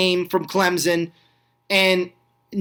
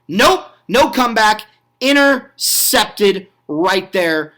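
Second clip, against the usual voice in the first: excited; 3 semitones higher, 4 dB louder, slower than usual. Real, not acted. Interception ends the comeback.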